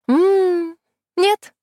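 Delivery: высокий голос улыбающейся колдуньи; дразня, отказывай сверху вниз; колдунья, насмешливо. Acted. (колдунья с улыбкой отказывает Кисане)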